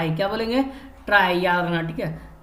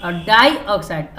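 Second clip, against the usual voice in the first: slow dictation; 4 dB louder, much slower than usual. Shown as a demonstration. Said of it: "तो क्या होगा".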